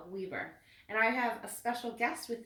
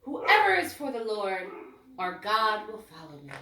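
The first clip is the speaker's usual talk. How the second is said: put-on loud rallying cry from an old priest; calling out; 2 semitones higher, 9 dB louder than usual. Old priest rallying the Jews, loud call. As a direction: call the people to follow you. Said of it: "called out".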